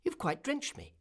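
very high-pitched complaint; little swallow. A narrator's reading. Swallow drenched by the Prince's tears, high-voiced complaint. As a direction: squeak it as the small bird. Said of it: "asked the swallow".

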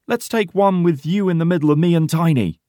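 high, loud call with a smile; cheerful shout. A narrator's reading. Porter calls for a photo with the girl, smiling shout. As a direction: shout it out happily. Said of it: "shouts Porter with a big smile".

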